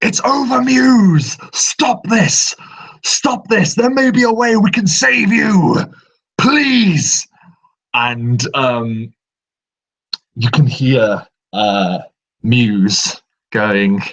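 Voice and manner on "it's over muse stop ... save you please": very high, full-throated, top-of-the-lungs scream. Narrating a scene to players, voicing a character screaming at the top of his lungs. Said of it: "screams at the top of his lungs".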